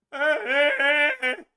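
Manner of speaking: loud, high fake bawling; mock baby wail. Commentator mimicking opponents who get up and cry, mock baby wail. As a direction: bawl like a baby, exaggerated. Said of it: "they cry like little fucking babies".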